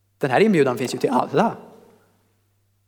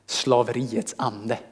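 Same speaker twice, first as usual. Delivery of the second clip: slow, low, softened dread; heavy and burdened; 4 semitones lower, 5 dB quieter, much slower than usual. Shown as a demonstration. Preacher showing how slavery's spirit sounds, heavy and slow. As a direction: let the words weigh you down.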